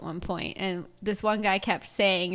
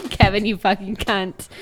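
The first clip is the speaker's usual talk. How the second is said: louder put-on Australian accent; 6 dB louder than usual. Reprising the running joke, loud Australian accent. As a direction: belt it out in a mock Australian accent. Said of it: "in an Australian accent".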